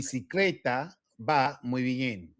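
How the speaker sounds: slow, evenly spaced Spanish sentence; pronunciation model. Shown as a demonstration. Teacher repeating the sentence before the student tries, slow model. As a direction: say it slowly for a learner to copy. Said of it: "now listen to me".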